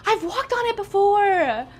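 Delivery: high, drawn-out objection; insistent protest. Real, not acted. Streamer insisting to chat she used the treadmill, protesting. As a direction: stretch it out as you insist.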